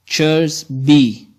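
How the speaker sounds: "Chairs" light, "be" leaned on; stress on be. Shown as a demonstration. Teacher shows the last foot, stress on be. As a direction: put the beat on "be". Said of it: "Chairs is unstressed and be is stressed".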